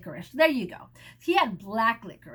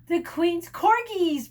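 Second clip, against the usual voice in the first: slow, louder announcement; announcing; 5 semitones higher, 5 dB louder, slower than usual. A narrator's reading. Percy warning of the Queen's dogs, slowly. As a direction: announce the corgis grandly. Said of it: "Percy announced".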